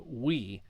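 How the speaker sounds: we said as one glide, oo into ee; we sound. Shown as a demonstration. Teacher demonstrating the ui diphthong. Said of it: "the U and the I".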